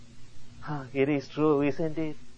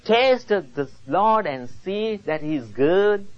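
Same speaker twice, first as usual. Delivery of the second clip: preaching appeal; 4 semitones higher than usual. Real, not acted. Preacher asking believers if their souls are satisfied, earnest exhortation. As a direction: press each question on the congregation from the pulpit.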